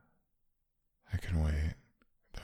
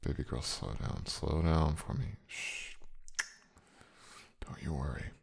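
soothing; 5 dB quieter than usual. Acted. Calming her, hushing.

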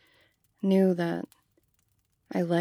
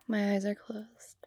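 whisper; 6 dB quieter than usual. Acted. Eyes closed awaiting surprise.

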